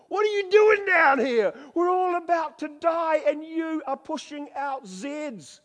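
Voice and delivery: high, loud yell of panic; captain's furious shout. Acted. Ship's captain shouts at sleeping Jonah, a high loud panicked yell. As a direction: bellow at the sleeper, terrified.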